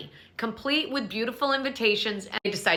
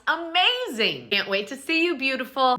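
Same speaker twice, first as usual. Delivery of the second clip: sweet gushing reply; 4 semitones higher than usual. Retold or imitated. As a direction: coo it like fake friendliness. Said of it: "And Mia responds".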